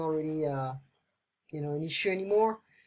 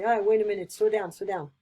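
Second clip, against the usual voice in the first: as if under a heavy load; straining urgent; 4 dB louder, faster than usual. Shown as a demonstration. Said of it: "carrying something very heavy".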